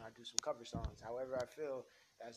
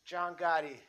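higher and louder, heated mobster shouting down his boss; loud mob argument; 8 semitones higher, 17 dB louder, slower than usual. Acted. Gotti's defender to the boss, loud angry shouting. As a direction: yell it like a street guy who won't be told off. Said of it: "I can afford to be that loud".

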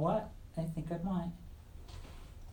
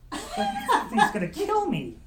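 put-on hammy high Irish accent, slow; clumsy put-on Irish brogue with a laugh; bad Irish accent; 5 dB louder, slower than usual. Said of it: "you've got to work on your Irish accent. It's terrible".

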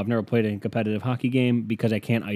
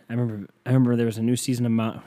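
tripping over repeated words; stuttering; faster than usual. Real, not acted. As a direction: stammer through the start. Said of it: "are you gonna stutter the whole podcast".

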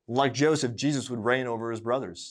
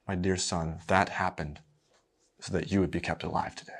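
tender mother; 3 semitones lower than usual. Acted. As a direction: gently reassure your little boy. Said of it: "She very sweetly looks him in the eye and says".

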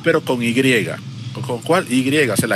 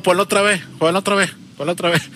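slightly hammed-up, higher-pitched plea; mock crowd demand; 5 semitones higher than usual. Acting out everyone wanting the letter back, mock insistent.

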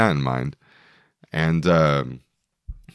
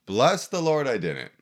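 joyful exclaim; 7 semitones higher, 4 dB quieter than usual. Real, not acted. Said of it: "did I have a hangover".

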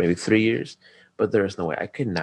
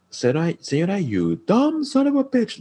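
mock furious yell; 13 semitones higher than usual. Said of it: "you can hear me, like, going up there".

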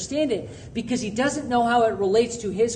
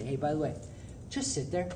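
soft inner voice; 6 semitones lower, 10 dB quieter, faster than usual. Retold or imitated. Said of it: "the Holy Spirit speak to me and say".

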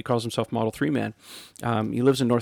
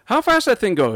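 higher, rough-edged trucker quote; 10 semitones higher, 3 dB louder than usual. Retold or imitated. Trucker asking Ian about the car, impressed. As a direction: play the curious trucker.

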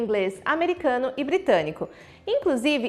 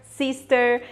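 American accent; much slower than usual. Shown as a demonstration. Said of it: "no inglês americano vocês percebem que eles realmente forçam esse som do E R".

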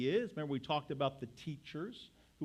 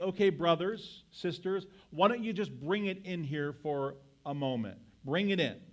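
grandfatherly tone. Retold or imitated. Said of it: "in a grandfatherly tone".

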